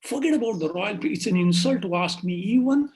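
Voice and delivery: loud-stressed, grandly indignant priest; scornful bluster. Acted. Priest bluffing to the king about his question, scornful bluster. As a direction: belittle it, punching the key words.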